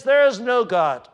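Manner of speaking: a lightly voiced arrogant wicked man; arrogant boast. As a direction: scoff like a godless boaster. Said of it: "an attitude that says".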